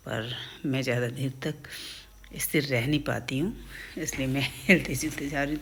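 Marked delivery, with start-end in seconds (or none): 4.0-5.6 laughing as she keeps fidgeting; laughing while talking. Real, not acted. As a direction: talk through real giggles, a bit louder. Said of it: "मुझे बहुत हंसी आ रही है". (हंसते हुए बोलना)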